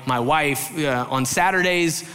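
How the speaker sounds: ordinary talk, nothing marked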